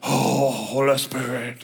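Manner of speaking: all breathy, airy delivery, switched from normal. Imitating people who switch from talking normal: breathy voice. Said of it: "It's like when people get all breathy".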